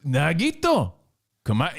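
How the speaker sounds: hammed-up emphasis on Nagito; emphatic name. Shown as a demonstration. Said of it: "wouldn't you put the emphasis on it".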